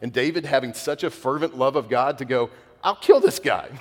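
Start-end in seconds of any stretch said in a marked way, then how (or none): 2.8-3.7 put-on loud, high battle cry of a young fighter; fierce vow. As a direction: shout it out with fervent zeal. Young David vowing against Goliath.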